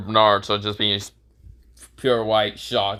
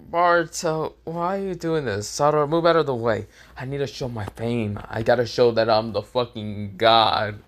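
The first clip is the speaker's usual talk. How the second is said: hammed-up anime voices. Satoru and Boruto voiced.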